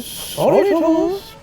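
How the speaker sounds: high-pitched ladylike sing-out; high, sheepish carriage voice; apologetic coaches. A narrator's reading. Two coaches apologise in chorus.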